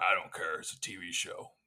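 lightly voiced old-timey prospector; a hint of a gruff old prospector; Harrison Ford impression. Imagined Harrison Ford brushing off the host, mild prospector voice. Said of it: "my Harrison Ford is like a old-timey prospector".

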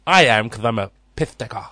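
mock lisping boast; Chris Eubanks. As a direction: lisp it with an emphatic "I am". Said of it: "Chris Eubanks".

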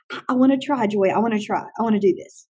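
understated, halting keenness; tentative willingness. Retold or imitated. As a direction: act out a teacher cautiously willing to try. Alternative milder teacher reaction to idea.

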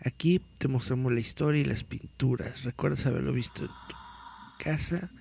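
dramatic read-aloud of a mystery article. Acted. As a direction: read it like a creepy news report.

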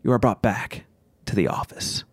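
measured, deliberate scene setting; game master narration. A narrator's reading. Game master describing the needle to players, measured narration. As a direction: narrate with pauses between phrases.

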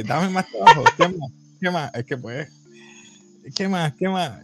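eager Tanjiro. Retold or imitated. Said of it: "Tanjiro le dice". (Tanjiro pidiendo más trabajo, ansioso y algo más agudo)

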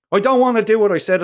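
high, loud and rushed in panic; panicky protest. Acted. Boy on the ledge begging to go back, panicked. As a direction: blurt it out, terrified of the drop.

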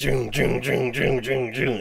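repeated springy sound effect; quick pulsing mock sound effect; imitated bouncing noise. Shown as a demonstration. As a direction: voice emotions jolting up and down. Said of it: "your emotions will just be like".

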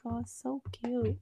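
imitating a polite fake coo; feigned delight. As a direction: pretend to find it adorable. Feigned delight at unwanted lighter.

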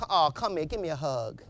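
a hint of a tender wife; coaxing wife. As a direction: gently coax him into a hug.

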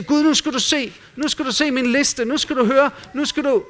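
a hammed-up, pushy list-prayer to God; mechanical babbling prayer. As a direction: mimic someone reeling off demands at God. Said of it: "prapper løs mekanisk".

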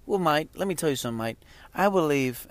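exaggerated British "mate" accent; mock British accent. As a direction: put on a jokey British accent. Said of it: "he talks like this".

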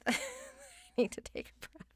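very high, slow, laughing repeat; laughing squeal. Real, not acted. Laughing at her own rant, high and slow.

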